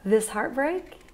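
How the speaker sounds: low, soft, stunned; quiet heartbreak, holding steady; lonely. Real, not acted. Alone on New Year's, quietly facing heartbreak.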